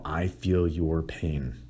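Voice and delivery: caring and unhurried; slow sympathy. Shown as a demonstration. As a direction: draw it out gently. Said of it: "You're letting the person know".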